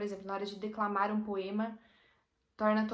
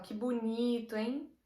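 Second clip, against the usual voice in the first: ironic; slower than usual. Shown as a demonstration. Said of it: "eu viro e falo".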